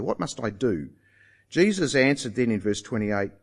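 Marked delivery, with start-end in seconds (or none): 0.0-0.9 "do" held as the key word; stress on DO. Shown as a demonstration. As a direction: land firmly on "do" at the end. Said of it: "Did you hear the emphasis there?".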